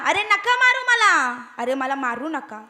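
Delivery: mild mock-frightened cries of a mouse begging not to be beaten; a touch of panic, begging mouse; frightened pleading. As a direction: plead for your life, lightly acted and not too big. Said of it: "जीव घाबरत ओरडत होता".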